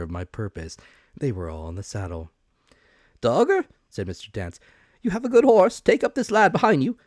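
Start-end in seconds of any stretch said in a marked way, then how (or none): 3.2-3.7 higher and louder, a bustling, eager supervisor; excitable officer voice. A narrator's reading. Mister Dance calls his man. 5.0-7.0 higher and louder, a bustling, eager supervisor; excitable officer voice. A narrator's reading. Mister Dance gives an order.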